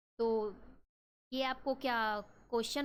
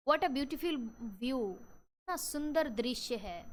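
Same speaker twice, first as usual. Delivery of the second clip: delighted exclamation; much slower than usual. Shown as a demonstration. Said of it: "आप देख करके खुश हुए".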